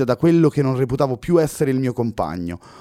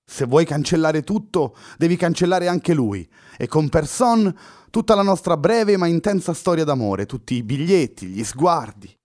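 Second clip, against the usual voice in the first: high, louder, pleading lament; Luna sighing; 5 semitones higher, 4 dB louder than usual. A narrator's reading. Girl reminding Fernando of their love, sighing plea. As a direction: plead with a heavy heart. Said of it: "concluse sospirando Luna".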